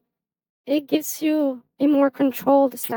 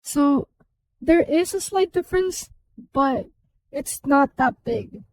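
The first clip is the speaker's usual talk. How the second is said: helium voice. Shown as a demonstration. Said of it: "And if you do that".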